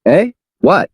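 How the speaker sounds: high startled cry; high frightened cry. Acted. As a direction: jolt in shock. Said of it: "exclaimed in fright".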